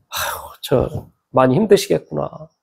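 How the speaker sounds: low, soft sigh of pity; sympathetic. Retold or imitated. Pastor privately pitying a burdened pastor's wife, soft sympathy. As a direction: think it aloud, subdued and tender. His sympathetic thought on seeing her.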